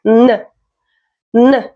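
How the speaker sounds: humming "nuh" for N; N as a sound. Shown as a demonstration. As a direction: say N as in nose, not its name. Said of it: "like in nose".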